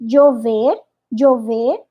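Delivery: Colombian dj in "chover"; Colombian accent. Shown as a demonstration. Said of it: "o acento colombiano é".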